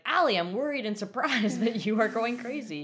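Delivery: put-on a light send-up of a wide-eyed worried girl; worried and surprised. Mocking Emily's one look, lightly voiced as worried-surprised. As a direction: play it all worried and surprised. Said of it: "She's like".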